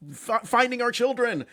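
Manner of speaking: high-pitched, indignant imitation of panicked parents; angry parents. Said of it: "obviously angry, chaotic voices".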